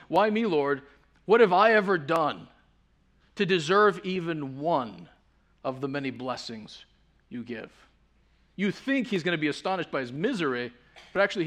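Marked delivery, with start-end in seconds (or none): 0.1-7.7 louder, wondering cry of gratitude; fervent song quote. Retold or imitated. Pastor quoting a singer's lyric, fervent and louder. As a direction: cry it out in grateful astonishment. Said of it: "The song goes".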